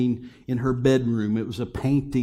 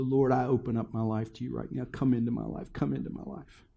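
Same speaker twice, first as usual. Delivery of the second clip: prayer. Acted. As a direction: lead the congregation in prayer. Leads sinner's prayer.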